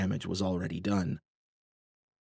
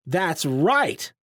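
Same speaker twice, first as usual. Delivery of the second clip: loud, higher, to the crowd; calling out; 8 semitones higher, 4 dB louder than usual. A narrator's reading. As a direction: call out to rile the crowd. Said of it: "Sloan called out to the crowd".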